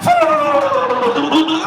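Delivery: high, slow drawn-out tootling flute noise; slow flute imitation. Entranced man humming a singer's flute tune, slow mock tootling.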